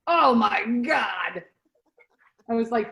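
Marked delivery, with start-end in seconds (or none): 0.1-1.4 amazed oh my God. Retold or imitated. Reacting to the toothpick trick.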